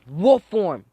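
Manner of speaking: loud, high battle call; high, forceful yell; calling a transformation. Acted. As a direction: shout the power's name like an anime hero. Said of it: "He says".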